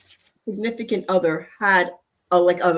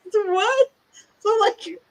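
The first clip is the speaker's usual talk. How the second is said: laughing; 12 semitones higher, slower than usual. Real, not acted. Laughing while talking about body image.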